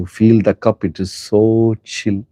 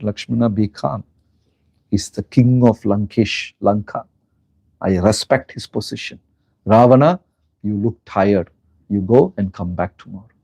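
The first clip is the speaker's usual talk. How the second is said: calm, gentle; 3 semitones lower than usual. Retold or imitated. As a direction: soothe your angry brother gently. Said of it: "Ram said".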